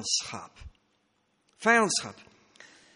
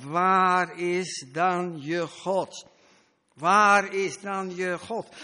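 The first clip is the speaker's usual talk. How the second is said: 1 sarcastic taunt; 4 dB louder, much slower than usual. Retold or imitated. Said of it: "Het is sarcastisch".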